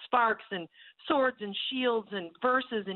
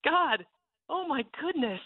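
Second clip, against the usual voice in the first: shaken; 4 semitones higher than usual. Real, not acted. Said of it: "my hands are shaking".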